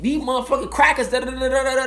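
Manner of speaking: usual speaking voice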